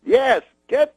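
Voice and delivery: very high, slow, halting impression; Bill Cosby. Comedian instructing his manager, high slow impression. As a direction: mimic a comedian giving drawn-out broken orders. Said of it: "He goes".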